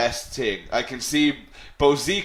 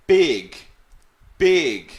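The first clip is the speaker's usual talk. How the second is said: big said loud and clear, twice; one-syllable demo; 6 dB louder than usual. Shown as a demonstration. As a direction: sound out big as one beat. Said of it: "has one syllable".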